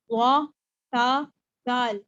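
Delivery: وا، تا، دال each said gently, without whistle or hiss; letter-by-letter demo of gentle وا، تا، دال; soft articulation. Shown as a demonstration. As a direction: sound out وا، تا، دال softly as separate drawn letters. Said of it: "یہ ہوتا ہے نرمی".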